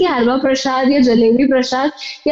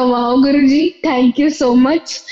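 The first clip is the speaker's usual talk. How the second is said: slow, drawn-out, moved thank you; heartfelt thanks; much slower than usual. Retold or imitated. Grateful devotee thanking Guruji for the service, slow and moved. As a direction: thank him slowly with feeling.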